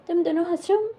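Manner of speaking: high, sharp scolding question; a teacher's scolding pitched high; stern teacher scolding. Retold or imitated. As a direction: catch the kids laughing and snap at them. Teacher scolding laughing kids.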